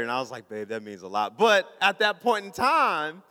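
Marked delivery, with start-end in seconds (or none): 0.5-1.4 low, tender thank-you; sincere thanks. Retold or imitated. Husband really thanking wife later, sincere. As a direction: drop the pitch and mean it. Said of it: "tell her really thank you".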